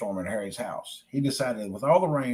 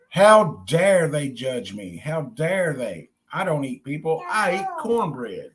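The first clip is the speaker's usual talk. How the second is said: mild anger; 3 dB louder, slower than usual. Acted. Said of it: "his hurt feelings ... turned to anger".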